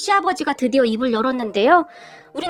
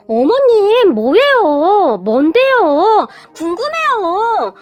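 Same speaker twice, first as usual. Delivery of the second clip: put-on high, loud and slow, childish pleading; pestering whine; 4 semitones higher, 5 dB louder, much slower than usual. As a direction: tug at her like an impatient kid. Daughter-in-law pestering mother-in-law.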